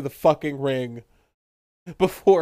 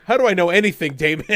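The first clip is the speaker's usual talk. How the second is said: mock dramatic line; 3 semitones higher, 5 dB louder, faster than usual. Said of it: "he goes".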